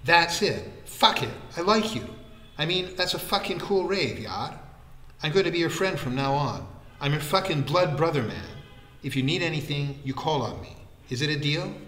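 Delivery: excited declaration. Acted. Vikram swears friendship to Lin, excited and emphatic. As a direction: gush like a new blood brother.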